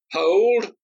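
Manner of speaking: loud, high commanding cry; strong shout. Acted. Senator's friend halts the execution with a strong shout. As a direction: ring it out to stop the duel. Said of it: "a strong voice rang out".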